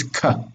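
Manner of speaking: ka with a plain hard k stop. Shown as a demonstration. Teacher isolating the hard letter, k stop in ka. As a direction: say ka with no throat friction. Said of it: "it's hard".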